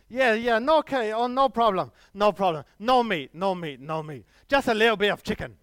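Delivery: put-on loud, high, eager Chinese accent; hammed-up vendor promising no meat. Street vendor selling chicken as vegetarian, loud mock Chinese accent. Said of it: "if I do a Chinese accent".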